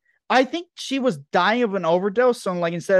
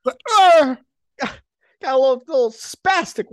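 paper bag breathing; 7 semitones higher, 5 dB louder, slower than usual. Retold or imitated. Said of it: "talk like you're fucking hyperventilating".

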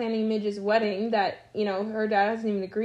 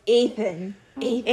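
lightly imitating a raspy New Jersey mother; a hint of a smoker's call for Ethan; shifting shapeshifter voice. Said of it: "that's not her voice at all".

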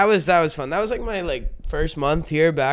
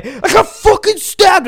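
high, drawn-out mock wail; hammed-up panic, pitched way up; imitating panicked friend; 12 semitones higher, 5 dB louder, slower than usual. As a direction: wail it like a hysterical injured friend. Panicking stabbed friend voiced in a story.

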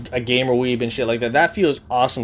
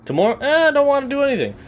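lazy self; 10 semitones higher than usual. Retold or imitated.

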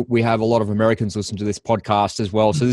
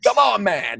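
high-pitched, incredulous protest; imitated disbelief, pitched way up; mock exasperation; 10 semitones higher, slower than usual. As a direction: plead with them, playfully fed up. Acted exasperated reply to naive emailers.

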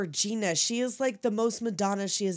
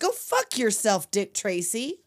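fed-up telling off; 4 dB louder than usual. Acted. Tess telling Tracy off.

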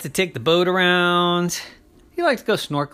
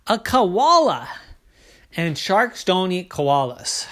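insistent correction; 5 semitones higher than usual. Acted. Koala corrects the puzzled shark.

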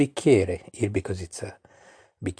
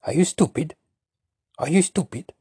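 mock Italian exasperation; 6 semitones higher, faster than usual. Shown as a demonstration. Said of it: "you say like this".

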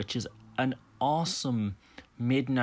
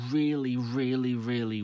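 whispered emphasis; 3 semitones higher than usual. Real, not acted. Emphatic praise of the film.

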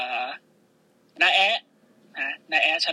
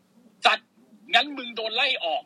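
mock furious firing; 6 semitones higher, slower than usual. Adam Pearce firing Lashley.

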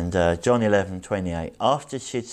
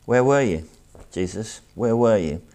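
pained questioning; 2 semitones higher, 4 dB louder than usual. Retold or imitated. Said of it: "with their pain and questions".

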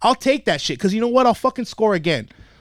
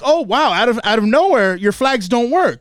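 higher-pitched sarcastic retort; mock amazement; 3 semitones higher than usual. Coach retelling his jab at the ref, sarcastic. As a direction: act out feigned surprise at the ref.

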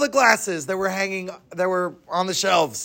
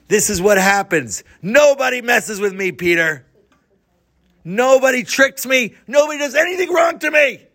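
gloating threat; 3 semitones higher than usual. Acted. Big man standing over the beaten guy, angry gloating. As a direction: hammer each nobody home, getting higher.

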